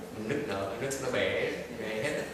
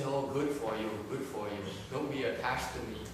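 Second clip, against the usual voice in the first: acted calm reply. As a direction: answer the outburst evenly, unruffled. Parent's unattached reply, after yelling.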